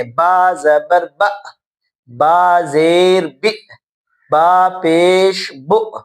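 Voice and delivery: each syllable jolted out with a sudden push; jerky syllables. Shown as a demonstration. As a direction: jerk every syllable sharply. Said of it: "اگر آپ جھٹکا دیتے ہیں". (جھٹکے سے پڑھنا)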